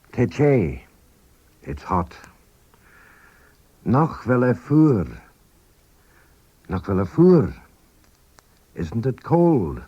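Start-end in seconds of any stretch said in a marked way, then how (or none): 3.8-5.1 slow demo. Shown as a demonstration. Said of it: "First, slowly".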